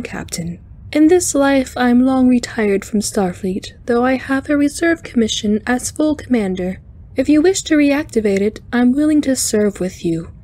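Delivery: high, lilting spider alien; cheerful alien speaking high; chiming alien voice. Acted.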